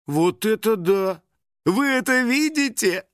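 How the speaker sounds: slow, high astonished gasp; be amazed by the boring closet. A narrator's reading. Vlogger gasps at viewer's dull wardrobe, astonished. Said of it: "ахнула Лиза".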